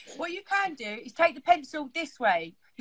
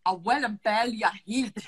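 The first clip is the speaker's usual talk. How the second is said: amateur go at a Scottish accent; attempted Scottish accent. Shown as a demonstration. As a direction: copy a Scottish put-down. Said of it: "I cannot do any accent".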